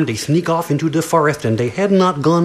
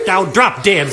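rude insult. Acted. Second girl insults again.

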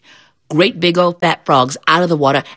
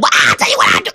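low possum voice; 8 semitones lower, faster than usual. Acted. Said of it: "Brer Possum said".

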